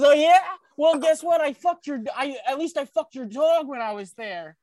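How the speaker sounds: mock taunt. Retold comeback, loud mock taunt.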